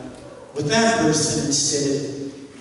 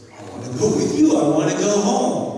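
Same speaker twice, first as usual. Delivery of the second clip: lightly voiced young girl; 5 semitones higher, 3 dB louder, faster than usual. Dying girl answers Jesus.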